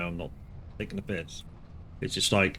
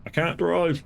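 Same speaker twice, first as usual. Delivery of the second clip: mock helpless voice, higher; an adult excuse mocked in a put-on higher voice; imitating a non-driver; 9 semitones higher than usual. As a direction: play the helpless adult who can't drive. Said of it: "for somebody to go".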